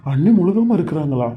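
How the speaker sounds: bursting with happy news; excited delight. Acted. The husband hears his sister-in-law is pregnant and is thrilled.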